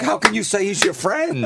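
lightly voiced girl, high-pitched protest; high mock indignation; imitated upset girl. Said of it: "the girl's like".

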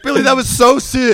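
high excited cheer; hyped praise. Retold or imitated. Cohost recalls cheering partner's set, high excited cheer. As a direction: cheer him on like a fan. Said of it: "I was like".

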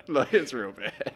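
drawn-out, laughing emphasis on real bad; savouring the put-down with a chuckle; slow laughing repeat. Real, not acted. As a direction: stretch it slowly through a laugh.

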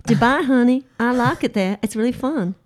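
a mock Southern belle, lightly done; southern accent. Co-host teasing her partner in a southern accent. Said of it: "let's go into southern accent".

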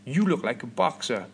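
clumsy imitation of a Southern American; poorly attempted Southern US accent; bad American accent. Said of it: "This is the worst accent ever".

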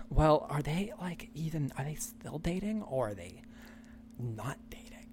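put-on Valley Girl accent. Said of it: "And the one girl goes".

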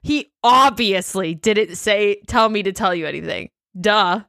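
OBVIOUSLY stretched, rest tossed off; stress on OBVIOUSLY. Retold or imitated. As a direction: lean on OBVIOUSLY, then a dismissive Duh. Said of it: "That's bigger of a blow to say".

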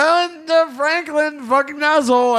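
loud, high mock outrage at the founder. Listener outraged at the fake founder, loud and high.

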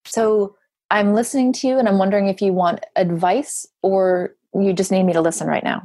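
measured, unhurried check-in; considerate offer. Shown as a demonstration. Coach showing how to ask someone venting, considerate offer. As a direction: offer it gently, leaving room for either choice. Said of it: "You can say it like that".

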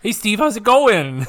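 cracking voice, pitch jumps up. Real, not acted. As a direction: voice cracks on a bright greeting. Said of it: "my voice just cracked for some reason".

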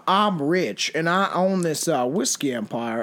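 slow, lightly voiced rich man's drawl. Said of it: "I always do that accent".

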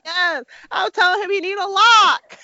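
high, excited gossipy reply; giddy nosy wife; mock gossip. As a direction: squeal the gossip back.

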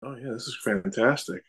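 mic echoing like a tiled room; talking from inside a bathroom. Real, not acted. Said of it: "you sound like you're in a bathroom".

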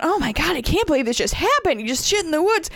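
loud astonished husband. Retold or imitated. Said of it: "Glenn's loudly talking about".

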